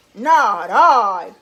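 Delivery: low, very loud dog voice; gruff it out low and loud. Acted. Dog refuses to help the little red hen, gruff. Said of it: "said the dog".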